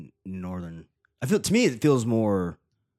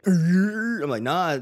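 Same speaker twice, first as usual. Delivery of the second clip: exclaiming; 9 semitones higher, 6 dB louder, much slower than usual. Retold or imitated. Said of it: "I be at work sometimes, be like".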